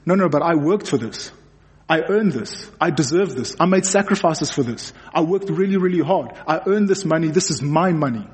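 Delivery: lightly acted self-justifying objection, pitch lifting as it goes; a touch of mock entitlement; entitled protest. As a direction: protest mildly that you deserve it. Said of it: "there's that thinking that says".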